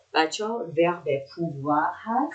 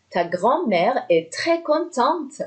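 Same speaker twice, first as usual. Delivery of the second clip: high, slow, singsong happy news; lightly acted pleased grandpa; acted delight; 8 semitones higher, slower than usual. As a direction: share the joy, drawn out and high. Acting grandfather passing on happy news.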